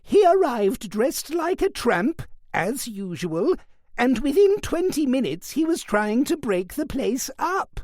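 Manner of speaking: put-on an old woman spitting out her grudge; fierce. A narrator's reading. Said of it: "eyes glittered fiercely".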